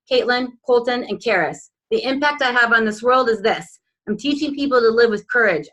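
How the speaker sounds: earnest reading of a personal vision statement; proud, measured affirmation read aloud. Acted. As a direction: declare each line like a vow. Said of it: "Let's hear it".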